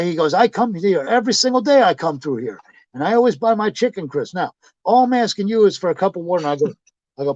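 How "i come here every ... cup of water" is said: higher-pitched insistent pleading; retold indignant complaint. Regular customer demanding water at drive-thru, insistent. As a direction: mimic him arguing his case.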